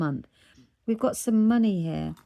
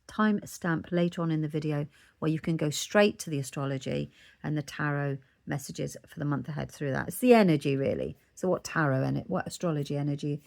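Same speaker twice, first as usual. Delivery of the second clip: loose dentures; 3 semitones lower than usual. Real, not acted. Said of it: "I've got to put my teeth back in. I can't speak properly".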